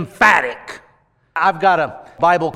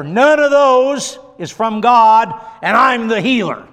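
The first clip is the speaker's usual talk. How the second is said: emphatic preaching; 5 semitones higher, 6 dB louder than usual. Acted. Preacher hammering home healing.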